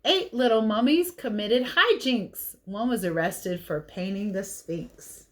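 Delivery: put-on lively read-aloud for kids; picture book reading. A narrator's reading.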